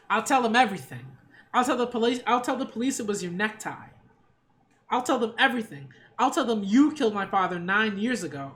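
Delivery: half-yelled threat, pushing each accusation; mild yelling. Acted. Eva threatens Kenzo in the hospital, mildly yelling. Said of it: "She just yelling now".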